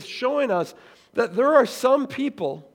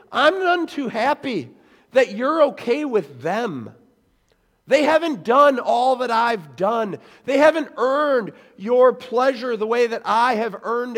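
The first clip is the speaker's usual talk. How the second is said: indignant complaint; 3 semitones higher, 4 dB louder than usual. Retold or imitated. Religious elite to Jesus, indignant. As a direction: insist on what you've earned. Voicing resentful religious people.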